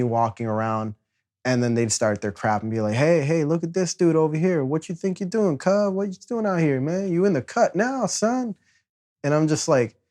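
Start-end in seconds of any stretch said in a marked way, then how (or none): 2.9-8.6 taunting gang voice. Retold or imitated. Gang members taunting him.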